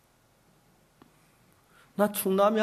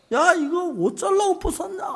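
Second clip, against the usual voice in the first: retold angry; 12 semitones higher, 4 dB louder than usual. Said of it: "내가 막 화가 난 거예요".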